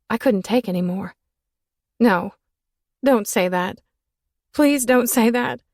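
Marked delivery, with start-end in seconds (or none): 2.0-5.6 begging. Acted. Woman begging, sob rising.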